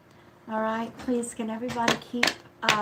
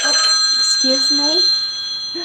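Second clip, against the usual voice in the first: startled excuse me; 6 semitones higher, 15 dB louder, much slower than usual. Real, not acted. Phone rings during live reading.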